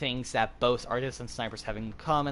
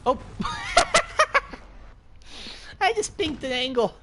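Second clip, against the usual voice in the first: excited laughing; 12 semitones higher, 4 dB louder than usual. Real, not acted. Excited reaction to a game shot.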